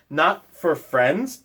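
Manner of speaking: slow, rising with wonder; wondering question. Acted. The mouse asks Bear back, slow and rising. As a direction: ask it back, hardly believing.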